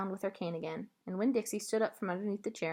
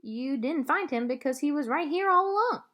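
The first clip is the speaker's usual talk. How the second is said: put-on a wise old lady letting you in on it; old woman voice; 6 semitones higher, 3 dB louder than usual. A narrator's reading. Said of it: "at me and said".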